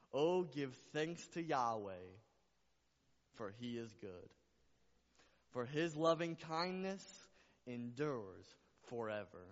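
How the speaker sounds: loud, drawn-out verse reading, easing on line ends; proclaimed scripture. Real, not acted. Preacher reciting scripture to the church, proclaimed slowly. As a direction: proclaim the verse slowly, dropping on the closing words. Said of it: "I'll say it like this".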